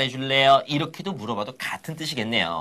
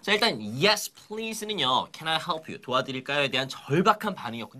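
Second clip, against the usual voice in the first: normal talking voice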